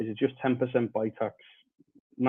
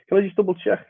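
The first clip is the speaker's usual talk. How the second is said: muffled mic. Real, not acted. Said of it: "it does sound a little bit muffled".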